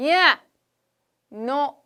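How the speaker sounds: 크고 높게 버럭; 상대를 막아서듯 소리쳐. Acted. 자석이 방해하는 역할극. (방해하는 자석처럼 버럭 외침)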